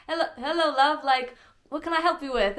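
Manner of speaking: high, chirpy imitation British accent. Imitating a helpful London station worker, bad British accent. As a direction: put on a playful, hammed-up British accent. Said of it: "I wanna do a British accent".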